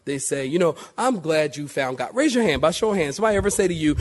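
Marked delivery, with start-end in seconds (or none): 1.0-2.1 a mild, understated hint of mockery; mocking, patronizing. Preacher imitating people who patronize believers, mildly mocking. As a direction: say it lightly condescending, without much push. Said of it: "in a mocking, kind of patronizing way".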